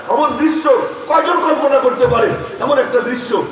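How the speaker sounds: fervent sermon voice; impassioned preaching. Acted. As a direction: preach it to a big crowd, building in force. Preaches at raised pitch.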